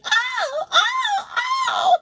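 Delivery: ecstatic high cry, very high and loud. Retold or imitated. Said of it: "he's like".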